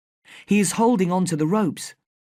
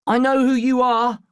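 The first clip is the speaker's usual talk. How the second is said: high, loud scream at the smuggler; 7 semitones higher, 3 dB louder than usual. A narrator's reading. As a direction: yell it right at him. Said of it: "I scream at him".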